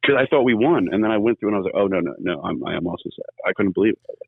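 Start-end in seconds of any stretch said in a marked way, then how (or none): 1.8-3.3 softer, sinking into mild dismay; sad. Retold or imitated. Fan retelling how the loss hit him, mildly sad. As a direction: let it drop off quietly, a touch crestfallen. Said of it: "I can feel it in your voice".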